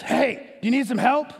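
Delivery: a hint of her crazy rasp; raspy lady voice. Lady in the smoking Buick offering help, mildly raspy. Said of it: "this crazy raspy voice".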